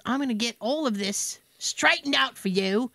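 lightly done bad British accent; imitation British woman, understated; horrible British accent. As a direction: reassure as a mock-British phone lady. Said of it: "I do a horrible British accent".

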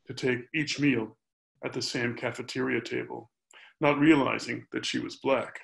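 measured reading of a prose poem; literary reading. Acted. Poet reads an essay-poem about Dayton to an audience, measured literary reading. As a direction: read the long sentences out phrase by phrase.

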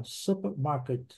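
supermarket with both super and market stressed; slow supermarket, hit super and hit market; two strong syllables. Shown as a demonstration. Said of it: "duas sílabas fortes".

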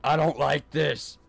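nervous stutter, words catching. Real, not acted. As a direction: stammer out of fear. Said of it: "I'm just stuttering right now".

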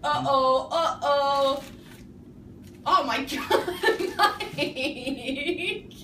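talking through a mouthful of marshmallows; cheeks stuffed full. Real, not acted. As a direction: speak with cheeks crammed full.

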